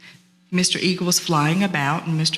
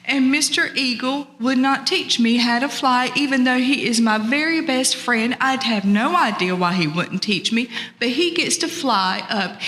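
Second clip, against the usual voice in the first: higher-pitched, frustrated turtle complaint; 6 semitones higher than usual. Acted. Turtle complains to his wife about Mister Eagle, frustrated. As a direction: vent a grievance, pitched up and emphatic. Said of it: "her husband was frustrated".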